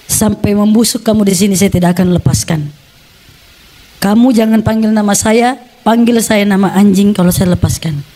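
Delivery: imitating father's low, measured threat; retold threat. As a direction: lay down an ultimatum, lightly voiced. Father threatens his chained son. (ancaman ayah, tiruan)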